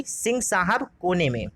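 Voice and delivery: slow, deliberate reading of सिंह साहब कोने में; slow mnemonic. Shown as a demonstration. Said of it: "last वाली line पढ़नी पड़ेगी". (धीरे-धीरे, हर शब्द पर ज़ोर देकर)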